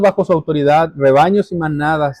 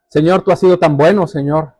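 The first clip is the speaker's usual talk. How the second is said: prayer. Real, not acted. Closing prayer.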